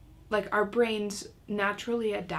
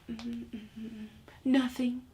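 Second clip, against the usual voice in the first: mock reluctant child voice; stalling child; 3 semitones higher than usual. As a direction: imitate a kid hedging with little hums. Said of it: "she might be like".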